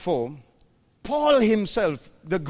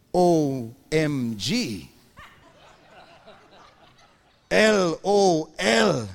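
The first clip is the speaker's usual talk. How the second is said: laughing spelled-out letters; 4 semitones lower, much slower than usual. Real, not acted. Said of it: "joking texting spelled letters".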